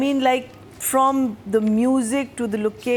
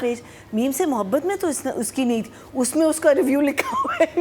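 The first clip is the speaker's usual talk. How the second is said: surprised self-quote; 4 semitones higher, much faster than usual. Retold or imitated. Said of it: "मैंने कहा".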